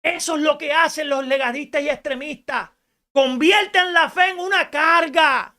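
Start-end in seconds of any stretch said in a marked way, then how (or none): 3.1-5.5 emphatic preaching shout. Acted. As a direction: proclaim "Convierten" with force. Preacher repeats key phrase louder.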